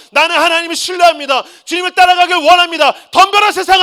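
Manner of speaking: shouted high and loud, full of faith; defiant shout. Retold or imitated. Pastor rising from despair, shouting defiance at the world. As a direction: roar your trust and challenge the world. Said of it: "하고 나가는 거예요".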